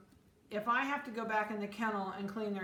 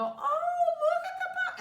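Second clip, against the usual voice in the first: put-on much higher, louder gushing baby talk with a laugh; 8 dB louder than usual. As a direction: squeal over the puppy like an excited visitor. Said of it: "Just don't do the baby voice".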